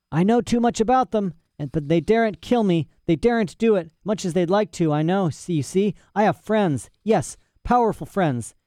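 put-on high-pitched, excitable old scholar; boastful mad professor. Imprisoned professor boasts of bear knowledge, excited. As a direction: brag in a high, agitated voice.

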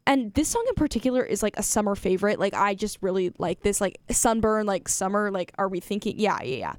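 a mild take on an excited fellow DJ; DJ impression. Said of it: "this is my best D J Case impression".

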